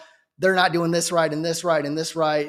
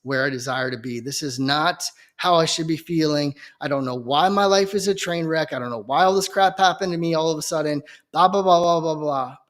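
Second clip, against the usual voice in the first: low, hushed, defeated plea to the Lord; despairing prayer to God; 5 semitones lower than usual. Retold or imitated. A grown man in the corner praying to God, low and hushed in despair. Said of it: "I'm shaking my head like".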